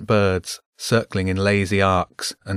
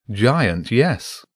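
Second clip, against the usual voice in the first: matter-of-fact. Acted. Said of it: "in a matter-of-fact tone".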